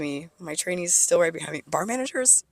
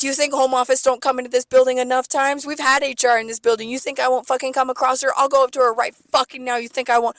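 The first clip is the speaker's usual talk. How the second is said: high, loud angry challenge; yelling at the bar manager about HR; 6 semitones higher, 5 dB louder than usual. Retold or imitated. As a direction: shout the threat, fuming. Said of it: "I'm yelling. I'm mad".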